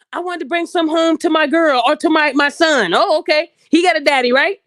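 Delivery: loud mocking back-and-forth; mock the exchange loudly; loud mock quote. Mocking woman and clerk exchange.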